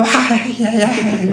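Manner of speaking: high pained ay ay ay, softly; a grape whimpering under the feet; mock grape cries. Grape crying out while being crushed, mock pain. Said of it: "estaría gritando".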